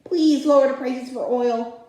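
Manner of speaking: mildly hammed-up pleading; Joe Biden. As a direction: plead lightly like a child wanting candy. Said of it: "Like a begging child for candy".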